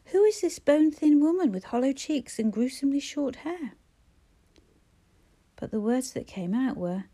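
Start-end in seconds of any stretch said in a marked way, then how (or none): 0.0-3.7 shouted demand. Acted. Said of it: "he wanted to shout".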